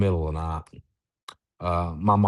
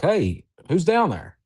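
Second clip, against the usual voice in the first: higher, drawn-out holler, no real volume; mock shout, pitched up and slow; retold call down; 9 semitones higher, slower than usual. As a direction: call down to someone below, mildly. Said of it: "I scream at 'em".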